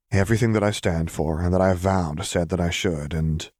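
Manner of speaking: lets "and" fall away unfinished; trailing off. A narrator's reading. Nephew unsure how to explain, trailing off on "and". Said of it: "he trailed off".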